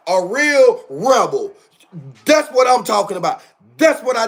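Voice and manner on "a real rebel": slow, weighty real; stress on real. Real, not acted. To his viewers, slow emphatic stress. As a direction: drag out real to land it. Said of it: "A real Republican".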